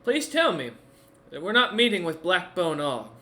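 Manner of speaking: high, loud plea; alarmed pleading. Acted. Bard dreads meeting Ogg.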